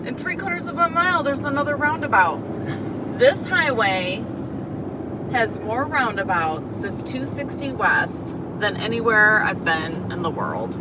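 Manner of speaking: loud, exasperated complaint about the road. Real, not acted. Driver echoing the GPS about yet another roundabout, exasperated.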